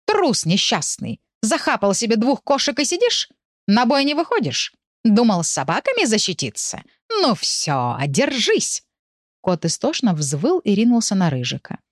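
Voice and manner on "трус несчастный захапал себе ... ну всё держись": angry cat. Acted. Black cat picks a fight.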